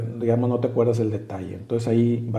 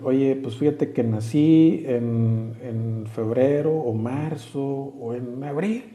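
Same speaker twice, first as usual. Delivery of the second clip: slow, drawn-out mock answer, unsure of the date; vague mock answer; 3 semitones higher, slower than usual. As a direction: play someone guessing his own birthday, unsure. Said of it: "pues no me vas a decir".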